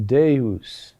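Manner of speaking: Deus, stressed on De, falling away on us; stress on first syllable. Shown as a demonstration. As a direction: lean on the De of Deus, let us drop. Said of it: "the accent on the next to last syllable".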